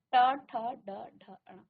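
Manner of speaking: ट, ठ, ड, ढ, अण said clearly with tongue curled back; teacher modelling the retroflex row; retroflex series demo. Shown as a demonstration. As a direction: sound out ट ठ ड ढ अण slowly for students. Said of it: "जहां पर स्पर्श कर रही है".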